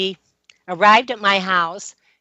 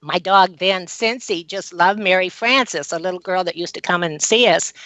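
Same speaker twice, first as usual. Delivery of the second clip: calm, matter-of-fact recollection; understated calm. Retold or imitated. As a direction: say it evenly and casually, as to a friend. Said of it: "just in a calm voice".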